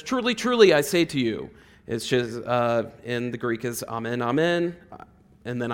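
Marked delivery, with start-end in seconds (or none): 0.0-1.5 quoting Jesus. Retold or imitated. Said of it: "He says".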